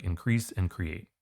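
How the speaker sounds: slow, even stress on Increase and create; slow check of Increase and create; demo of matching verbs. Shown as a demonstration. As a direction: sound out Increase and create to hear they match. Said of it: "Be like".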